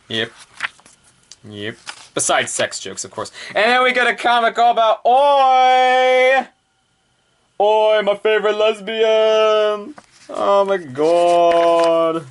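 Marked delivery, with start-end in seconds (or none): 3.5-12.3 high, loud excited squeal, stretched slow; gushing fangirl squeal. Real, not acted. Reviewer gushing over a favorite character, high squealing delight.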